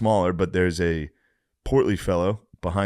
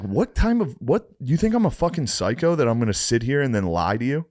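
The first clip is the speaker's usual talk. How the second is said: exasperated; 5 semitones higher than usual. Retold or imitated. Retold argument with waiter.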